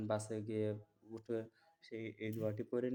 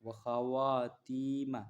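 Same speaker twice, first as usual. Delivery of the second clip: stretched out syllable by syllable; slow Arabic recitation; much slower than usual. Shown as a demonstration. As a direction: draw the word out for learners. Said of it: "সফরকারীকে বিদায় দেওয়ার দোয়া।".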